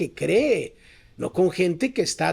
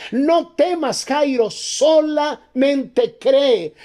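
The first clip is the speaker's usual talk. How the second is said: raised, insistent preacher's pitch; full-force preaching; 5 semitones higher, 4 dB louder than usual. Real, not acted. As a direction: build to ringing, stretched-out commands.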